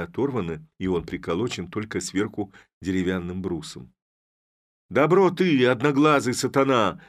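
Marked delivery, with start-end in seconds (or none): 4.9-7.0 high, loud furious cry with одноглазый punched; angry outcry. Acted. Sister-in-law to the one-eyed head, an angry high outcry. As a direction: hurl the insult at him. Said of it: "вскричала она".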